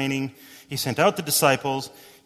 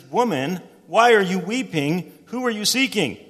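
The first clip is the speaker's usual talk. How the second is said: earnest question; 6 semitones higher, 6 dB louder than usual. Acted. Jesus voiced asking Mary.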